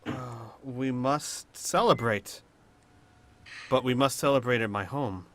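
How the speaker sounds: sigh, then speak deliberately; measured, weighty invitation after a sigh. Acted. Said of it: "Al sighs and says".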